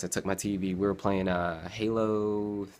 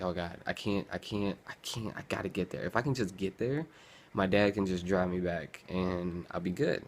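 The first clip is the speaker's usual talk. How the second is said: panicked self-talk; 4 dB quieter than usual. Retold or imitated. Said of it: "I'm like".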